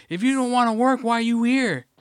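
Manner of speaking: high, loud mock yell. Imitating a coworker yelling about not working, yelling. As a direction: yell it as an accusation. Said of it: "She starts fucking yelling".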